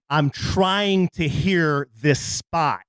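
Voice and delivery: slow, pointed complaint; irritated wife. Retold or imitated. A hint of a wife annoyed at her singing husband. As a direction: drag it out, annoyed. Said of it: "In that kind of voice".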